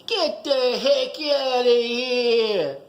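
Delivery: mock outraged shopkeeper; mock indignant owner. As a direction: drag it out like an outraged clerk. Owner throws Archie out.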